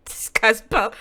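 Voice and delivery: breathy whispered aside; hushed disbelieving whisper. Real, not acted. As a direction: whisper it like a secret. Hushed reaction to creepy line.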